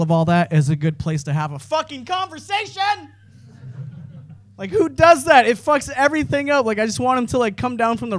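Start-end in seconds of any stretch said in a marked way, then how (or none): 1.6-6.7 sudden high squeaky conversation; mock disgust. Comic on stage mocking crowd blockers, high squeak. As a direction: spit the word out in a high mock whine.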